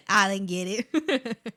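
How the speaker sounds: slow whispered admission. Real, not acted. To chat after missing a name, slow whisper. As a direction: breathe it out slowly and unvoiced. Admits failing viewer's name.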